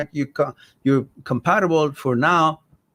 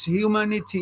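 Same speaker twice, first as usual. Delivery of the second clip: French-accented, with a lilting higher pitch; 5 semitones higher than usual. Real, not acted. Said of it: "that was a French accent".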